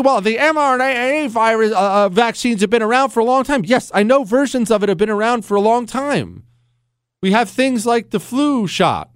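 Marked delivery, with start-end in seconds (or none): 0.0-3.6 mock skeptic voice. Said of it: "don't do this thing".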